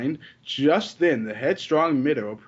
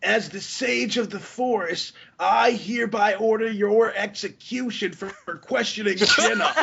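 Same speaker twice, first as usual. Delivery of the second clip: mock grand decree; 7 semitones higher than usual. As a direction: pronounce the sentence like a judge. Mock sage pronouncing execution.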